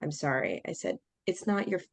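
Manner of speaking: softened retold apology; changed, apologetic tone. Speaker to partner after snapping, softened apologetic tone. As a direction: drop into a gentler, conciliatory voice. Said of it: "I, like, changed my tone".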